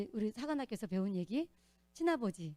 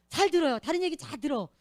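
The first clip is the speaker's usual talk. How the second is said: emphatic insistence; 5 semitones higher, 10 dB louder than usual. Real, not acted. Stressing she hears everything else.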